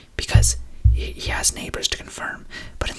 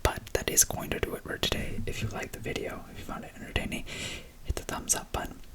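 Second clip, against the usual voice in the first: hushed ASMR whisper. Real, not acted. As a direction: whisper close to the mic, gently.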